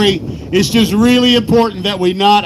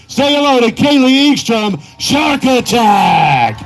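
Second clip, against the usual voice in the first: hype announcer. Real, not acted. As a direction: stretch the name for the crowd. Announcer introducing driver.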